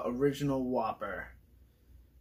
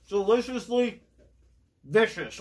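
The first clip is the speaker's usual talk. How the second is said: excited catchphrase; 5 semitones higher, 4 dB louder than usual. Pretend. Catchphrase after tasting, excited.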